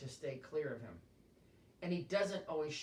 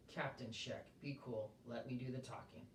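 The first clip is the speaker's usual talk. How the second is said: much softer, low and hushed; under his breath; 4 semitones lower, 8 dB quieter than usual. Acted. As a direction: keep it down so the officer can't hear. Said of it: "under his breath".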